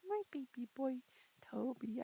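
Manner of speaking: soft tender whisper to the dog. Real, not acted. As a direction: breathe it to him like a secret.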